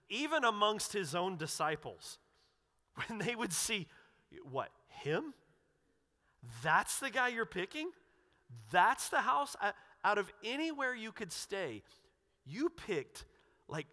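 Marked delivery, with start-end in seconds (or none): 4.5-5.3 rising, disbelieving questions, pitch climbing; incredulous crowd. Retold or imitated. Shocked crowd questioning Jesus. 6.6-9.6 rising, louder, higher disbelieving questions; shocked disbelief. Retold or imitated. Crowd disbelief, first take.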